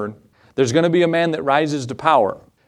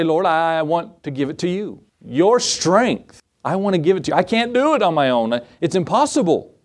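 higher-pitched, earnest plea to God; pleading prayer; 4 semitones higher than usual. Acted. Struggling believer tells the Lord they can't do it alone, pleading.

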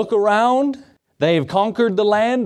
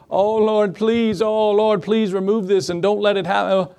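mock pleading; 3 semitones higher than usual. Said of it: "start pleading with God".

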